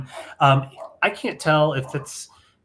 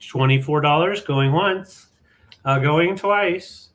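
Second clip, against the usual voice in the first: slow, drawn-out auctioneer call; 2 semitones higher, 4 dB louder, slower than usual. Acted. Auctioneer call, selling item.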